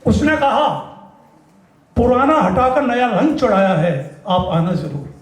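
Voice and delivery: slow, lingering verse; measured mushaira-style delivery; poetry recitation. Acted. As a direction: stretch the refrain like a stage poet. Recites his poem Makaan.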